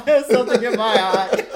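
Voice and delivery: high laughing mock tears; re-quote with a laugh; lightly imitating hurt Smithers; repeating hurt line. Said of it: "So dramatic".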